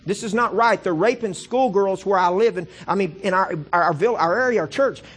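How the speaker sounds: high, loud, slow outraged cry; frustrated ranting holler. Retold or imitated. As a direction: rail against God at full force. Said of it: "I hollered out the gate one day in frustration".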